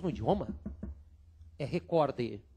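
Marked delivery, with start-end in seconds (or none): 1.6-2.4 recorde with stress on -cor-, ending in a soft -de; correct recorde. Shown as a demonstration. Teacher models recorde for the class. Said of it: "Você só vai falar recorde".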